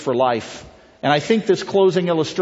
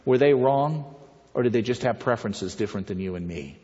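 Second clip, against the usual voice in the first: softer and lower toward the end; gentle question; 3 semitones lower, 4 dB quieter than usual. Retold or imitated. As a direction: gently press the point. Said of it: "Very gently".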